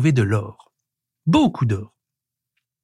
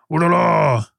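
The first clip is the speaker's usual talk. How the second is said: higher, drawn-out cry of alarm; panicking; 4 semitones higher, slower than usual. A narrator's reading. Prehistoric man alarmed at all the zoos demanded, panicking. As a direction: wail it in a comic fluster. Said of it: "s'affola l'homme préhistorique".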